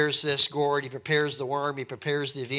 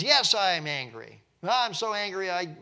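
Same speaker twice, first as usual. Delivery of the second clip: louder, mildly acted outburst; openly angry; 4 semitones higher, 4 dB louder than usual. Jonah sharing his anger with God, mildly angry. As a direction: voice a frank, angry admission. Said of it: "sharing with God his anger".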